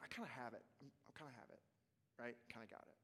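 quiet self-talk mumble; mumbling to himself. Retold or imitated. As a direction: mumble it under your breath. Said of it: "so I'll just kind of mumble it to myself".

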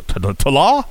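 Tala tried as tuh-LAH, rising; questioning mispronunciation. Shown as a demonstration. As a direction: stumble into Tala, stressing a long final "lah". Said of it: "what is it supposed to be".

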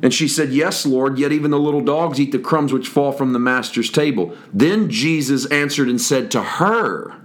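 measured Bible reading voice; steady scripture recitation. Acted. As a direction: read the passage aloud to the congregation. Reads scripture aloud.

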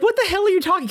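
high, laughing confusion; laughing disbelief. Retold or imitated. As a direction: squeak it out through a laugh. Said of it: "I was like".

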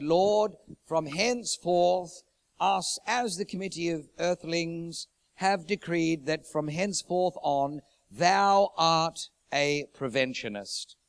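slow, pompous committee proclamation; hammed-up formal decree to God; mock pompous decree. Committee of earthlings decreeing to God, slow and pompous. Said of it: "we formed this committee".

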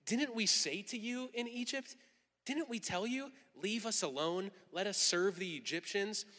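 mildly hammed-up sarcastic complaint; acted accusing questions, lightly sarcastic. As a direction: complain with a touch of mock reproach. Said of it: "so hear the sarcasm here".

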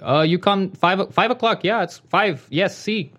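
a hint of halting foreign-accented English; limited-English speaker. Title company contact confirming a time, lightly imitated foreign accent. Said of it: "He doesn't speak English that well".

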